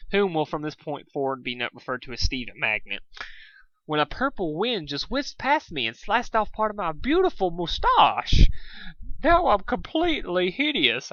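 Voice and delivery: camp it up as the vain, weepy sea serpent; fabulous sea serpent. Acted. The vain sea serpent wailing over his lost moustache, high and theatrical. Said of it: "I can't do his voice".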